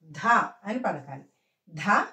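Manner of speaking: ధ released with a puff of air; firm aspirated dha, not a plain da; aspirated consonant. Shown as a demonstration. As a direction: push breath out on ధ. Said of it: "గాలి వదులుతూ పలకాలి".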